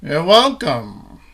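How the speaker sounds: film noir voice. Acted. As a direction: drop low and slow, hard-boiled. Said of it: "ready for the film noir version".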